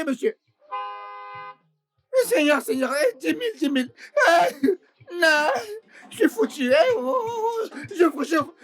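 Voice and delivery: high, crying pleas; desperate wailing. Acted. Employee begging the boss after the fine, wailing. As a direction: wail and beg through tears.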